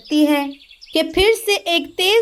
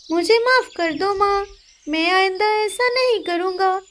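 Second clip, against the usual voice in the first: put-on high pleading boy's voice; apologetic boy; 5 semitones higher than usual. Son begging mother's forgiveness, high child voice. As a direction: say sorry to mum.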